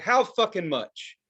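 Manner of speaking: slow mock demand. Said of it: "It's like".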